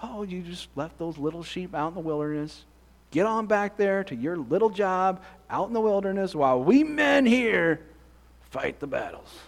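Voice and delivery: a hint of a sneering older brother, mocking the little job; belittling big brother. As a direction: talk down to him like a scornful big brother. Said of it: "to belittle that little brother".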